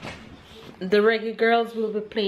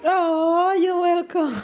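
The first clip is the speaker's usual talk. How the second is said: high, loud and delighted; 11 semitones higher, 5 dB louder, slower than usual. Real, not acted. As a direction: beam with surprised delight. Child calls her Mama Princess.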